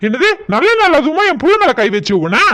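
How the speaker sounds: outraged father's challenge; indignant yelling. Acted. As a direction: snap at her in protective anger. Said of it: "நீங்க வேற ஏங்க கத்துறீங்க?".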